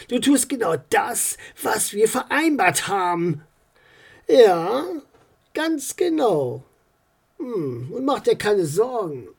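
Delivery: a hint of a calm, firm official; reassuring but tense mayor; mayor on the phone.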